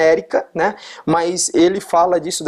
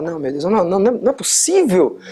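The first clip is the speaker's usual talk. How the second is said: mock panicked denial; 5 semitones higher than usual. Driver whose car won't start, mock panicked disbelief. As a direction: pitch jumps up into a half-acted panic of disbelief. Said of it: "aí você começa a negar".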